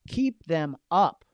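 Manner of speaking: drawn-out emphasis on keep; slow, stressed keep. Shown as a demonstration. Coach urging agents to keep clients going, slow and firm. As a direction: stretch out KEEP slowly and firmly.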